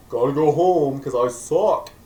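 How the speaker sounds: half-yell it like giving up; mock dejected shout. Last-place student announcing he quits, loud mock despair. Voicing the failing classmate.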